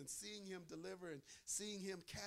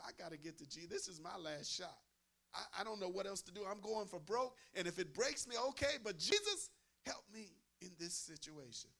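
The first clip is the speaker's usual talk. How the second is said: desperate resolve; 4 dB louder than usual. Retold or imitated. Preacher voicing the blind man, building to a loud plea. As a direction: push harder until it breaks out. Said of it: "a bold spirit that says".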